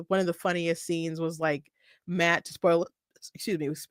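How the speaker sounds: soft talk broken by hiccups. Real, not acted. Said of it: "I got the hiccups a little bit".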